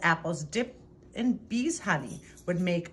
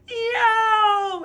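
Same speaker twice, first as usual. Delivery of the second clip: high, loud yelp of pain; sudden stung yelp; 10 dB louder than usual. A narrator's reading. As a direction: yelp as the bee stings. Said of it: "Abel yammered".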